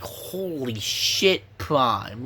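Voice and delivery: awed surprise. Retold or imitated. Awed reaction to beheading.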